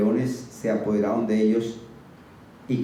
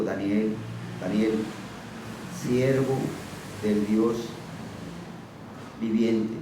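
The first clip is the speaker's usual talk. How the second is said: lower, mournful calling out; sad voice; 3 semitones lower, 4 dB quieter, slower than usual. Acted. King calling to Daniel at the den, sad voice. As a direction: call his name as if he's already lost. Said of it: "con voz triste".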